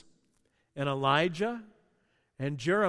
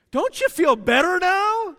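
excited call; 10 semitones higher, 9 dB louder than usual. Real, not acted. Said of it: "You can melt down".

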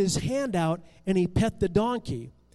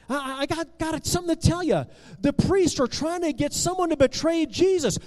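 put-on higher, louder, fast anxious boy; urgent warning; 6 semitones higher, 3 dB louder, faster than usual. A narrator's reading. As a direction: blurt out the secret in a rush. Boy urgently warns disciple.

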